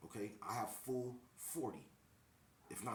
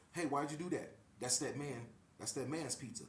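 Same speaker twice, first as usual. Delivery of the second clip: retold call-out; 3 semitones higher than usual. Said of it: "Then I say".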